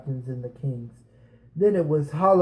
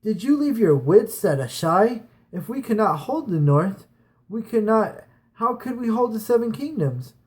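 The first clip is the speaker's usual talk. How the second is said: put-on raised, higher voice for a defiant young woman; Asha calling out; 6 semitones higher than usual. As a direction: call out to the captains, challenging. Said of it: "Asha called out".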